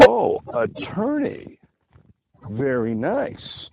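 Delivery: a hint of a flirty date, drawn out; impressed woman. Woman voiced in retold date.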